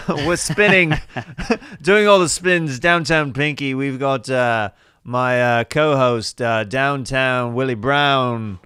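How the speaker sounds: hammed-up DJ patter, laughing between lines; mock radio DJ. Comic riffing as a fake British radio host, mock DJ. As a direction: spin it like a goofy morning-show host.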